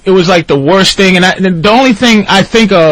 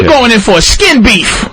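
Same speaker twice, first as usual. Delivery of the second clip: gangster voice; 6 semitones higher than usual. Retold or imitated. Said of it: "So he goes".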